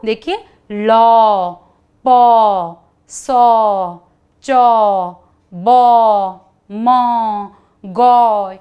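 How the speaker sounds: loud, slow model words लौ पौ सौ each stressed; teacher drilling the औ syllables with class; drill repetition. Shown as a demonstration. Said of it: "एक बार दोहराएं इनको".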